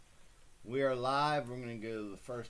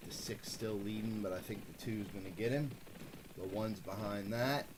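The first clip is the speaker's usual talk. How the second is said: race call. Acted. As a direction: call the race like a track announcer. Streamer calls a virtual horse race.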